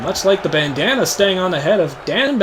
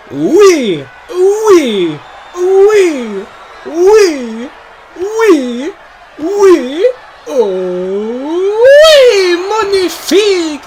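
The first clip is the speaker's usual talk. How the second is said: high, loud French cries of "oui"; French accent; 8 semitones higher, 6 dB louder, much slower than usual. Acted. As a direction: whoop it in a hammed-up French accent. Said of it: "in a French accent whenever he delivers them".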